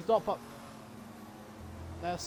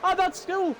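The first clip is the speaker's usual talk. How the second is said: raised-pitch live play-by-play; keyed-up motorsport commentator; excited race commentary; 4 semitones higher than usual. Real, not acted. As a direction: call the racing action with rising excitement.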